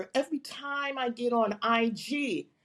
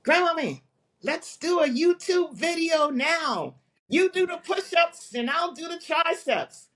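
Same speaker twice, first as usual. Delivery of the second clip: put-on higher, bright kid's request; grandson's eager voice; 5 semitones higher than usual. Grandson pitching a workout video, lightly voiced. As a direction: voice the grandson begging to film. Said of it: "he says".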